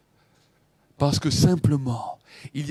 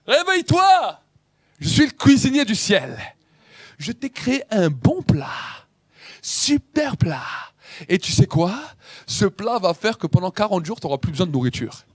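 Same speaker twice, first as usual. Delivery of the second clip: higher lively angel voice; angel as heavenly cook; 4 semitones higher than usual. Acted. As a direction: sell the heavenly dish with glee. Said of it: "Il dit".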